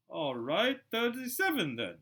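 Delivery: high, slow sulky concession; grudging Dudley. Acted. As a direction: give in with a pout.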